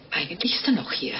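whisper. Acted. Creepy confession to the priest.

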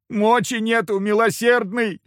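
high, loud begging whine; insistent whine. Acted. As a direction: keep whining for mercy. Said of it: "продолжил настойчиво ныть".

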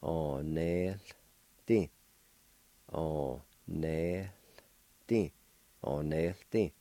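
Onelti slowly, leaning on the L after the N E; careful pronunciation. Shown as a demonstration. Teacher modelling doll for students, slow and careful. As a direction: stretch out Onelti so every sound is heard. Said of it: "you pronounce the L sound with the N E like this".

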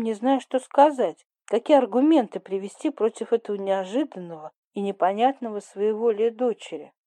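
plain reading voice

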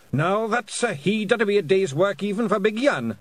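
high, lively Scots character voice; Rob Anybody. A narrator's reading. Pictsie sizing up a monstrous whale, high broad Scots.

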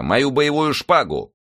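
slow, high-pitched command; shouted order. A narrator's reading. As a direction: call for it, drawing the words out. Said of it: "крикнул он Планше". (протяжный приказ на высоких нотах)

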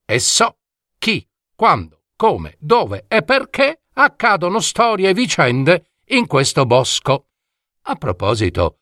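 lightly voiced talking dormouse, pleased with himself; proud dormouse. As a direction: announce yourself like a know-it-all forest creature.

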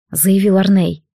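plain reading voice

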